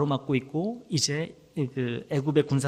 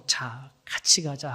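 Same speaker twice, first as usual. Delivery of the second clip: gentle invitation; 3 semitones lower, much slower than usual. Acted. God inviting the weary believer, slow and gentle. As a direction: hold out a hand and invite, very slowly. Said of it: "하고 초대하시는 거예요".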